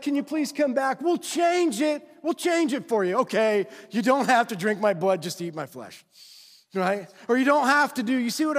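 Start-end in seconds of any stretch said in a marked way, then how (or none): 0.0-6.0 mock begging Jesus. Imagined Jesus pleads with leaving crowd, mock pleading. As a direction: beg them back and offer a deal.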